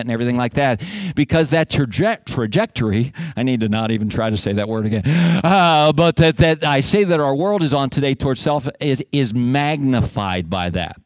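ordinary delivery

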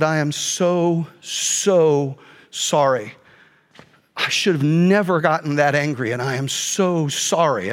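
slow, low, heartfelt apology; retold tearful apology. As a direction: apologize haltingly, holding back tears. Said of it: "all I could do not to cry".

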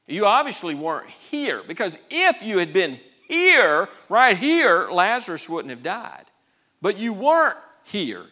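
loud, emphatic blame; acted exasperated complaint; accusing reproach. Acting out the sisters' reproach to Jesus.

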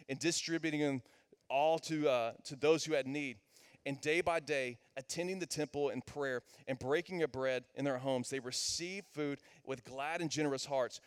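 steady, measured Bible reading; reading the text out plainly; scripture reading. Acted. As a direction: read the passage to the congregation. Reads scripture aloud.

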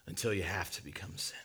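hushed whisper, falling on until; a father whispering the hardest truth to his son. Acted. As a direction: breathe it out in a whisper. God's grave revelation to son.

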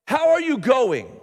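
"How are you going?" lifted high, falling on are; repeated key phrase. Shown as a demonstration. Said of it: "I don't have one".

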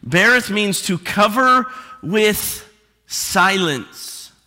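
slow, weighty, "cover" stressed; preacher driving the definition home; slow emphatic repeat. Shown as a demonstration. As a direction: spell it out slowly for the congregation. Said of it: "Let me say that again".

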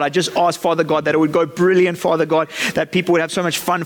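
imitating a teen leader praying, Father God every line; mock worked-up prayer. Leader mimics a teen praying at camp, mock churchy prayer voice. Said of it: "It would go something like this".

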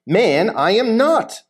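mild indignant denial, pitch swinging; emphatic denial. Acted. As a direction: firmly deny it, acting lightly. Reads Peter's denial to accuser.

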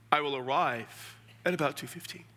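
lightly stiff, formal answer; mock formal reply. Replying over-formally to a game invite, mock formal. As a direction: answer a friend too formally. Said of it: "I'm not gonna be formal".

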